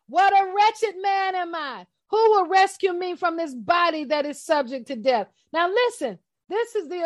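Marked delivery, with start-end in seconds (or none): 0.1-5.3 crying out "wretched" with a breaking voice; anguished cry. Acted. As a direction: cry it out like a desperate man. Reading Paul's cry with anguish.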